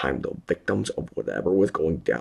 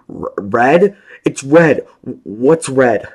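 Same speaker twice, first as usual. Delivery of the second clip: stammering fear; 11 semitones higher, 16 dB louder, slower than usual. A narrator's reading. Stammering confused calls.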